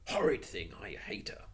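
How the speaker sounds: hissed whisper of dislike. Acted. Robert whispering his dislike to Cyril. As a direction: whisper it through a sneer. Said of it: "Robert whispered back".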